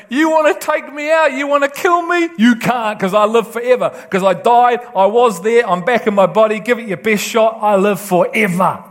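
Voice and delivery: defiant Lazarus. Acted. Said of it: "Lazarus is gonna go".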